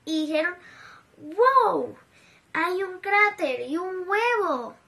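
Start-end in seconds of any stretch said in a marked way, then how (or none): 1.2-4.8 asombro. Acted. Niños asombrados ven el huevo.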